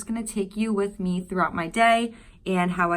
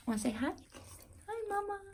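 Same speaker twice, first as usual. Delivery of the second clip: high, soft pet-talk voice; 13 semitones higher, 15 dB quieter, much faster than usual. Real, not acted. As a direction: coo at the puppy. Cooing to her dog.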